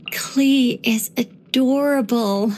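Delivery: slow, breathy whisper. Real, not acted. Telling the traveler about Klee, slow whisper. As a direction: let it slip out as a fond secret.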